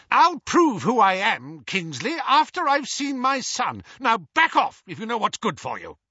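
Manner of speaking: frantic father shouting. Acted. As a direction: shout him down to reach his son. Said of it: "never heard Mister Weasley shout like that".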